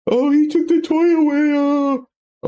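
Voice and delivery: mock child complaining about a stolen toy; whiny kid voice. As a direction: squeak it out like a pouting little kid. Parent voicing child's whiny complaint.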